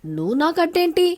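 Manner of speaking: indignant man snapping at a rival; angry. Acted. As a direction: hurl it back at her in anger. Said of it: "కోపంగా".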